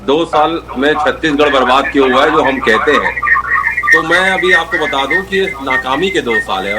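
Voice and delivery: echoey mic, voice bouncing back; speaking into an echoing line. Real, not acted. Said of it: "आवाज आपकी इको आ रही है". (इको वाली आवाज़)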